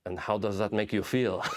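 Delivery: lightly imitated French accent; Olivier Sarbil, French accent. French cameraman trying to get feelings out of a soldier, French accent. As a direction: probe gently in a mock French accent. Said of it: "almost like Pepe Le Pew".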